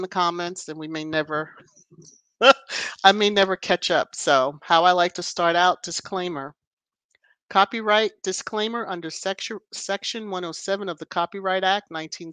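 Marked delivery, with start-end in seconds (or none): 5.8-6.5 whispered aside before the legal read. Real, not acted. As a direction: breathe the word disclaimer as a whisper. Announcing the copyright disclaimer.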